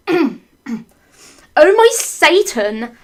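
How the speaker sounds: high, loud, drawn-out cry; hammed-up shriek of alarm; mock scream. Couple caught jumping out of the coffin, mock screaming. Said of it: "We screamed as we jumped out".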